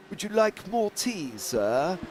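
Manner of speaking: imitated Jeeves-style English butler; mock Americans doing posh English; mock posh English accent. Teasing an American colleague's English impression, mock posh butler accent. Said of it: "why do you always go".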